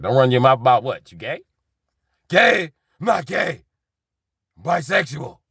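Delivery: high, loud indignant Joker voice. Retold or imitated. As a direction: snap back like a shrill villain. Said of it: "Joker was like".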